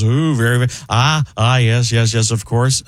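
halting musing with oohs and ahs; Jeff Goldblum. Shown as a demonstration. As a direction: savour each stuttered agreement. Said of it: "Jeff Goebbels".

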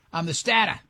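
lightly done New England dropped r's; "stata" for starter, mild New England imitation; New England accent. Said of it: "I'm trying to do him".

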